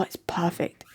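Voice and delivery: breathy whisper aside. Real, not acted. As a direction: whisper it close to the mic.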